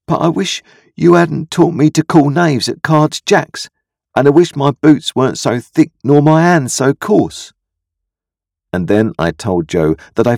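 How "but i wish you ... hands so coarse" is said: put-on high, raised boyish complaint; upset young Pip. A narrator's reading. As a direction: blurt out the grievance like a wounded child. Pip blurts out his misery.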